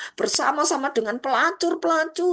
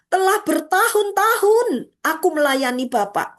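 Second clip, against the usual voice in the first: angry complaint; 4 semitones higher, 4 dB louder than usual. Acted. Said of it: "Marah kepada ayahnya".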